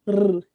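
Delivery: R as a brief rolled "rrr"; short rolled R, not the letter name; weak R sound. Shown as a demonstration. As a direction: trill R with the tongue tip. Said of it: "se tiver um R só".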